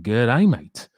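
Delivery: hammy, badly faked Aussie greeting; mock Australian twang, poorly done; bad Australian accent. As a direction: put on a terrible Australian accent. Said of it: "It's the worst accent ever".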